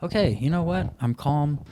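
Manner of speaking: put-on eager kid pleading. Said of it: "You're like".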